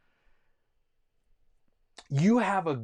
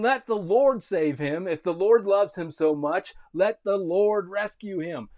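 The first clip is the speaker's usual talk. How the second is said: mocking taunt; 4 semitones higher, 6 dB louder than usual. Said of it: "They're mocking him".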